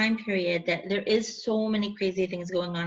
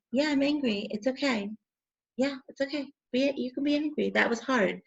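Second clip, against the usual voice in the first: validating self; 5 semitones higher than usual. Shown as a demonstration. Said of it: "So you're saying".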